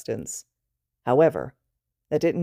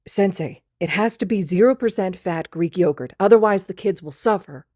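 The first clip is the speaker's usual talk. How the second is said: put-on higher, louder drunk babble; tipsy nonsense; 4 semitones higher, 4 dB louder than usual. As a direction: babble it like a tipsy kid dead serious. Drunk student talking nonsense.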